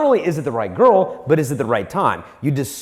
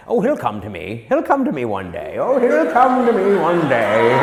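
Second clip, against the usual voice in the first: mock dreamy girl. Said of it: "Some girls fall into that".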